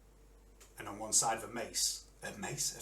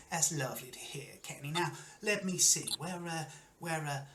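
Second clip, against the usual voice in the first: lightly voiced carnival host chatting; friendly showman Wiley; 3 semitones higher, 4 dB quieter than usual. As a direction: chat to the fighter as the host, lightly in character.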